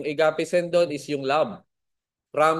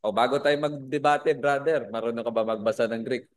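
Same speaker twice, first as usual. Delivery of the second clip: mock cocky challenge; 4 semitones lower than usual. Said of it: "medyo mayabang ... pabungad nila".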